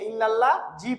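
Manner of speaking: ইল্লাল্লাহ জি with a hard 'j' ending; common mispronunciation. Retold or imitated. Teacher imitating how many read it, mispronounced. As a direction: put a Bengali j in জি. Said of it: "আমরা অনেকে".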